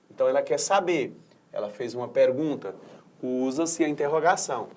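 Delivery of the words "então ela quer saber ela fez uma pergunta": ordinary talk, nothing marked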